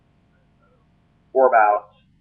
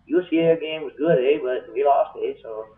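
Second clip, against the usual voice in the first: mock Canadian. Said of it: "on the Great White North, eh".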